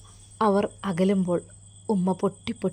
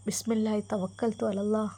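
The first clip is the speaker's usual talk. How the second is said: mother's soft prayer; 2 semitones higher, 4 dB quieter than usual. Acted. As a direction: bless them quietly, pitched up like a worried mother. Mother prays as son leaves.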